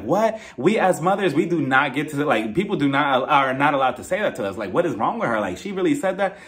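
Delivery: mildly scandalised retelling; mock shock. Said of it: "she was shocked about it".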